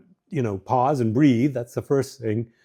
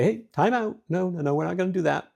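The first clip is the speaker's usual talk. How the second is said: calm time-out. Shown as a demonstration.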